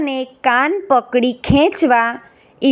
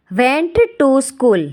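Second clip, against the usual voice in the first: very slow, word by word; teacher's slow English gloss; slow glossary read; much slower than usual. Shown as a demonstration. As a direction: read it out slowly for learners. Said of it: "હવે આપણે જોઈશું ગ્લોસરી".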